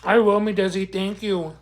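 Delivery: talking while chewing; words round a bite of food; mouth full. Real, not acted. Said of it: "I'm starving".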